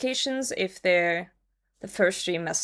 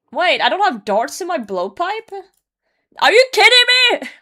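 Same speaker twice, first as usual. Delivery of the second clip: screaming, very high, very loud, shrill, rising; 10 semitones higher, 12 dB louder than usual. Mid-game, finding the blowpipe has no darts, screaming. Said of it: "Sorry for screaming".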